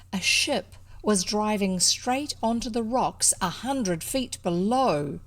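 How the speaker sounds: measured, expressive read-aloud storytelling; story narration. A narrator's reading. Reader telling of a ship heading for rocks, expressive narration. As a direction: draw listeners into the tale with deliberate phrasing.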